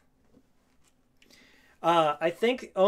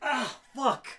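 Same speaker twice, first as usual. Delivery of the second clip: pained laugh after a snap; laughing at own mishap; 6 semitones higher, 3 dB louder than usual. Real, not acted. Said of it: "I'm gonna watch myself do that".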